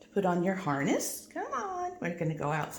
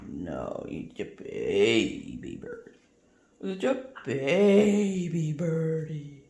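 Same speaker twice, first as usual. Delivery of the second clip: low cooing; 4 semitones lower, slower than usual. Real, not acted. Cooing to parrot.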